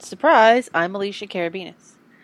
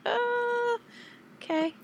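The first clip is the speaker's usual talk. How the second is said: dismissive; 11 semitones higher, 7 dB quieter than usual. Retold or imitated. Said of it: "And I'm like".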